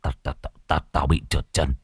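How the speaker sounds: breathless, soft frightened stutter; stammering. Acted. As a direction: trip over the first word, voice gone thin. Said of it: "Bá Khôi lắp bắp". (lắp bắp sợ hãi, hơi thì thào)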